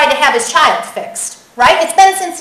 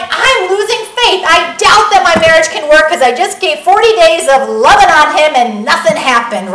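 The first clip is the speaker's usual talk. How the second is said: exasperated complaint; 2 semitones higher, 5 dB louder than usual. Retold or imitated. Discouraged spouse venting about forty days of loving, mock exasperated. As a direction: imitate a fed-up spouse venting. Acted frustrated spouse losing faith.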